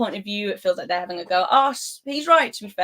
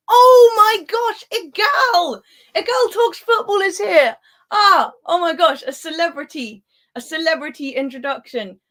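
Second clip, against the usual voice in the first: much higher and louder, gushing over a guest; starstruck squeal; 8 semitones higher, 8 dB louder than usual. Real, not acted. Streamer greeting a famous YouTuber in her chat, starstruck shrieking. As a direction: squeal the name like a fan meeting an idol.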